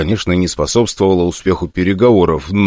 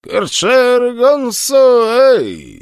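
much higher, slow alien orc growl; rasping orc; much slower than usual. Acted. Captured orc rasps in his own tongue, struggling. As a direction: wheeze out strange orc words while struggling. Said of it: "хрипел орк".

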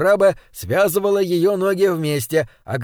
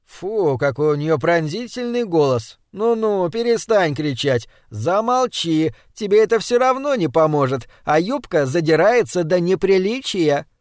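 irritated scolding. Acted. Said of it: "сказала сердито".

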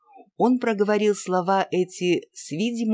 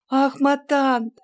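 high, loud begging; girl begging her aunt to take her; pleading; 10 semitones higher, 5 dB louder than usual. A narrator's reading. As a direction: beg the aunt eagerly. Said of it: "упрашивала Анна".

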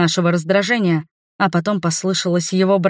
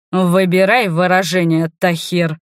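usual speaking voice

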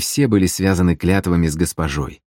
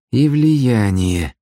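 slow, hoarse added remark; 5 semitones higher, much slower than usual. Acted. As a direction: rasp it out flatly. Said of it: "добавила сипло Галка".

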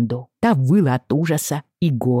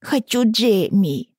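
put-on crying child; 8 semitones higher, slower than usual.

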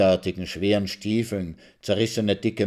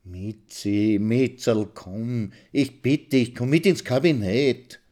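a touch of halting, eager pleading; husband begging wife to come inside; stammering begging; 3 semitones higher, slower than usual. Acted. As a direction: beg her haltingly, rising. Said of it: "bettelt erregt mit seiner stotternden, hastigen".

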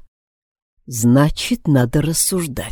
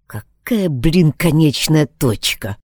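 through gritted teeth; slower than usual. Acted. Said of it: "процедил я, скрипя зубами".

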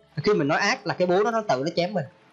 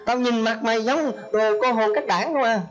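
put-on higher, slow, drawn-out insults to the child; mock scolding mother; 4 semitones higher than usual. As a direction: berate slowly, word by word. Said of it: "mẹ giận con cũng chửi con". (giọng mẹ chửi con, cao, chậm rãi)

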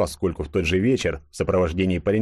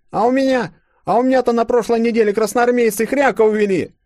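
high, loud lad crying out; thin lad shouting; 6 dB louder than usual. A narrator's reading. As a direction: blurt out the loss, aggrieved. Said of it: "выкрикнул худенький паренёк". (худенький паренёк выкрикивает жалобу)

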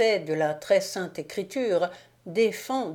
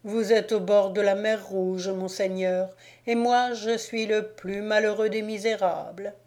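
piteous whine; 2 semitones higher than usual. Acted. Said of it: "se prit à geindre piteusement".

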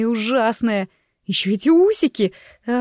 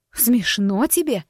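barely audible hiss; slower than usual. Acted. Embarrassed wife hisses at her laughing husband. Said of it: "едва слышно процедила".

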